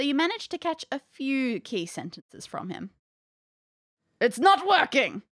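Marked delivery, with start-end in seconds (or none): 4.2-5.2 put-on Spanish accent. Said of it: "how do you do a Spanish accent?".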